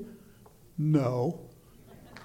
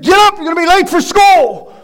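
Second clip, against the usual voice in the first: parent's wake-up call; 6 semitones higher than usual. Retold or imitated. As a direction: call your kid out of bed, raised voice. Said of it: "gone in there and said".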